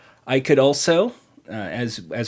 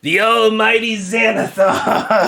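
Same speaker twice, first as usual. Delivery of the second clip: slow, higher, grand announcement; booming announcer; 6 semitones higher, slower than usual. Pretend. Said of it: "I gotta do the other B, Dave".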